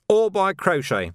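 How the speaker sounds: a prim landlady speaking slowly; lightly voiced Miss Palm; Miss Palm's voice. A narrator's reading.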